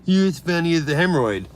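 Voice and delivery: reads "you're as funny as the hemorrhoid" in a put-on sneering voice; mocking chat voice. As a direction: parrot the insult back in a silly voice.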